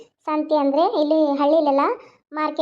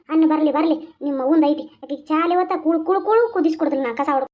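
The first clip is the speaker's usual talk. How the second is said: lightly voiced old aunt. Older woman consoles, threatens. (ತಗ್ಗಿದ ಧ್ವನಿಯಲ್ಲಿ ಸಮಾಧಾನಿಸುವ ಮುದುಕಿ)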